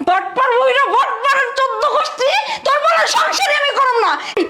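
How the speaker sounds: furious bride yelling she won't stay married; angry yell. Acted. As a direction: shout it out in rage. Bride berating cheated husband.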